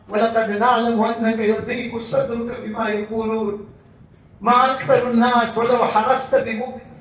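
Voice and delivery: rapid recited Arabic verses; quick Quran recitation. Acted. Preacher reciting verses to the congregation, rapid.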